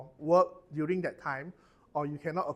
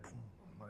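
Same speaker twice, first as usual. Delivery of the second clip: soft, low boom; imitated explosion; 8 semitones lower, 19 dB quieter than usual. Shown as a demonstration. Teacher mimicking a stepped-on booby trap, soft low boom. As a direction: quietly mimic a blast going off.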